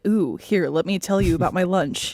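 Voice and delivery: over-enunciate small talk like poetry; poetic British enunciation. Retold or imitated. Teasing British friends about lunch chat, poetic enunciation. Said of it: "everything's like poetry".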